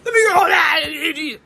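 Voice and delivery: a hint of a smug commenter; mocking online critics. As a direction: sneer it like a gossip hungry for clout. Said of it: "and then say".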